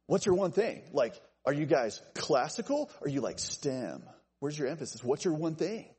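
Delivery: lightly voiced marketing pitch; hip marketing speak. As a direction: pitch it like a trendy consultant. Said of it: "kind of hip and cool in marketing speak".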